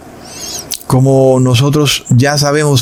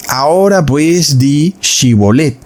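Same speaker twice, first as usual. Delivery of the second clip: commanding guard; 2 semitones higher than usual. Acted. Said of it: "Entonces le decían".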